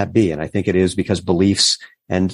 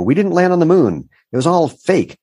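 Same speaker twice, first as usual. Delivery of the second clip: conspiracy believer voice; 9 semitones higher than usual. Retold or imitated. Voicing a conspiracy believer's claim.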